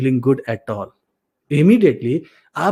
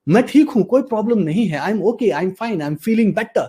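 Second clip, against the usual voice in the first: higher-pitched upbeat affirmation; positive, energised; 5 semitones higher than usual. Shown as a demonstration. Coach demonstrating a positive affirmation, higher energised voice. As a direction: declare it with confidence, pitch lifted. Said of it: "इतना positive बना लो और just बोलो".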